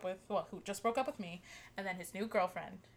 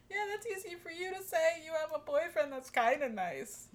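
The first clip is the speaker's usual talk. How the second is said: sarcastic retort; 6 semitones higher than usual. Retold or imitated.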